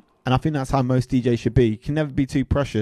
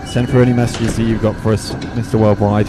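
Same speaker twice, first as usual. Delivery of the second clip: séance medium; 3 semitones lower than usual. Acted. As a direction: call out to the spirit like a hammed-up medium. Calls on a rapper like a séance.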